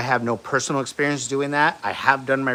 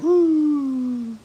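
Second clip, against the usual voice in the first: high, loud, playful whoop; mock woo; 4 dB louder than usual. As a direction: whoop like waking up high on drugs. Waking from anesthesia, acting thrill.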